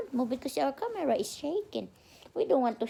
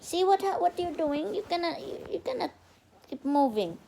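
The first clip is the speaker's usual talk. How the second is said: scolding; 7 semitones higher than usual. Real, not acted. Mother scolds fidgeting child.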